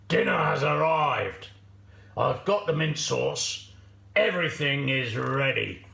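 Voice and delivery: lightly voiced gloating wolf. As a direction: relish the coming meal as the wolf. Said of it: "said the wolf".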